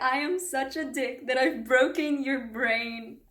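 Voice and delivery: deliberate quote. Retold or imitated. Repeats the favourite line deliberately.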